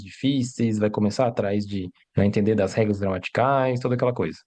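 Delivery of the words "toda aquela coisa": ordinary delivery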